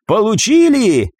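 high, drawn-out crow of victory; triumphant cry. A narrator's reading. Ева gloats as the attackers waver, crying out triumphantly. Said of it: "торжествующе выкрикнула Ева".

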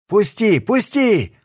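captured prisoner begs to be released; panicked cry. A narrator's reading. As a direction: struggle and beg to be let go. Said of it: "кричал зэк".

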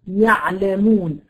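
slow "يعلمون", the ayn cut at once as it starts to flow; careful slow demo of the clipped ayn in "يعلمون". Shown as a demonstration. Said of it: "بيجي منقطع مرة واحدة".

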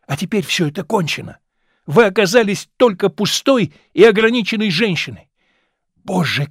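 bitter, scornful tirade, rising in heat; young man's contempt. Acted. Young man rejecting the actress who failed on stage, scornful. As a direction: lash her with every word.

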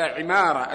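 عمارة said ʕimāra, i after the ayn; عمارة as "ʕi-MAA-ra"; kasra on the ayn. Shown as a demonstration. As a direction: open عمارة with "ʕi". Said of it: "يقول بكسر العين".

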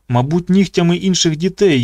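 plain reading voice

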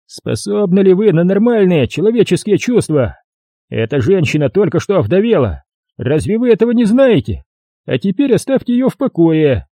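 high, sarcastic policeman; mock him while sending him off; mocking cop Jerry. A narrator's reading. (полицейский насмешливо отвечает рассказчику)

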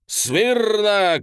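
high, loud parade-ground bark; shouted command. A narrator's reading. General shouting attention at the officers. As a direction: snap the troops to attention. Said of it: "кричит".

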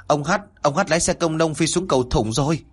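high-pitched urgent report; calling out. Acted. Villager shouts the news back. (gọi báo tin dữ, giọng cao)

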